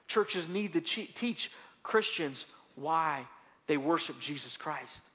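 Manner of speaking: each word laid down slowly; slow emphatic preaching. Acted. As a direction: drive the point home slowly.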